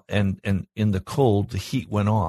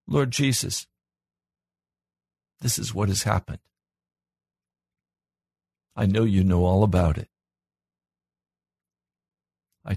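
put-on childlike trusting prayer. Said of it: "And like a child say".

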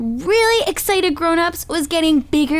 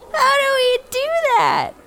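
whining grown-ups; 10 semitones higher than usual. Acted. Grown-ups answer the storyteller.

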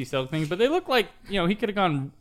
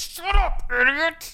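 mock snap; 13 semitones higher, slower than usual. Mock retort to Emily.

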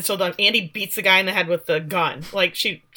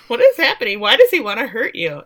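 mock frantic; 3 semitones higher, 4 dB louder than usual. Daughter demanding answers from mother, mock frantic. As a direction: escalate into mock hysterical questioning.

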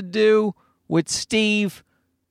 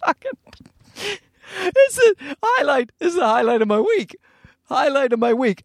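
high-pitched, laughing delight; helpless, high giggly voice; cracking up; 8 semitones higher than usual. Real, not acted. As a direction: squeeze the words out through real laughter. Cracking up at the text.

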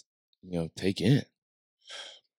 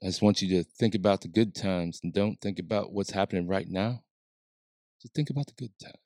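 calming voice; 6 dB quieter than usual. Retold or imitated. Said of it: "does that calming voice of his".

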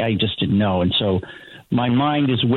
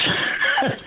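brief unvoiced chuckle; breathy little laugh; short laugh. Real, not acted. Laughs at chipmunks clip.

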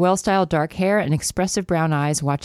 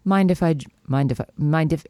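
put-on British accent; 3 semitones lower than usual. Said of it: "I'm trying to do an accent here".

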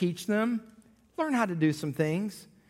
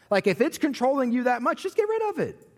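emphatic urging; 7 semitones higher than usual. Real, not acted. Urging to drop phone.

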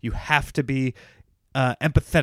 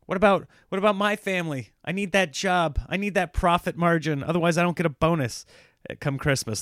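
whiny barista; 4 semitones higher than usual. Retold or imitated.

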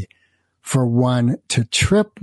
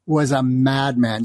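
ordinary talk, nothing marked

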